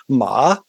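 Ma dipping low then up; third tone ma. Shown as a demonstration. Teacher demonstrating the low dip on Ma. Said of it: "you can repeat after me".

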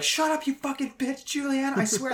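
high mock yelling mom; angry mom. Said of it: "your mom's just like".

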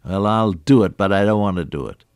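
a put-upon, reluctant yes; grudging mock compliance; grudging reluctance. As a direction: say it like you're only complying under protest.

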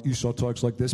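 lightly voiced low Esau; Esau's voice. Shown as a demonstration. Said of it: "he, like, changed his voice a little bit".

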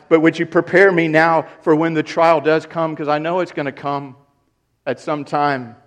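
earnest prayer. Acted. Penitent believer praying.

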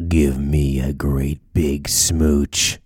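deep, slow man's voice, teasing; low masculine voice. Retold or imitated. Parrot asking cleaners for a kiss, deep and slow. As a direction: drawl it out low and slow like a suitor. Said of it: "they said".

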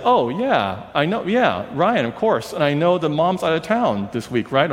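high, chatty and eager; lightly voiced brassy realtor; a hint of a bubbly, take-charge woman; loud cheerful woman. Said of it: "this loud woman".

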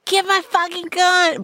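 high, forceful mock demand; angry demand. Boyfriend demanding his gun mid-chase, hammed-up angry bark. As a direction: bark it at her. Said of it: "And he's like".

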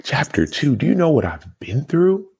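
high-pitched disbelieving retort; incredulous. Retold or imitated. Recalling his reaction to his friend's remark, incredulous. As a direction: act out indignant disbelief, pitch jumping up. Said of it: "in my mind, I'm like".

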